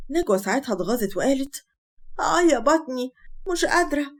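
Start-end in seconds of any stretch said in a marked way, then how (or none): 2.2-4.1 higher, whiny put-on moan of pain; faked stomach ache. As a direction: play up a fake bellyache to win attention. Pregnant wife feigns stomach pain. (تأوه ألم مصطنع)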